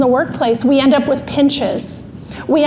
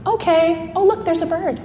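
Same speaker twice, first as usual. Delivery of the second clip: lightly imitated, easily distracted dawdler; a touch higher and soft, drifting off; dawdling sister-in-law; 4 semitones higher, 5 dB quieter than usual. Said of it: "this is just her".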